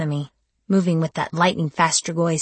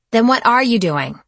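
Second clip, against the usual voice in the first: fear bursting out as anger, higher and louder; demanding anger; 6 semitones higher, 7 dB louder than usual. Acted. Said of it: "I demanded, all of my pent-up fear bursting out as anger".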